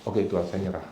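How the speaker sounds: very soft surrender. Retold or imitated. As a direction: give up softly to God. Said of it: "dia langsung". (pasrah dengan suara sangat pelan)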